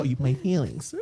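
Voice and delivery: mock-faint struggle to speak; about to faint. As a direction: choke it out as a comic ordeal. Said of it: "I'm about to faint".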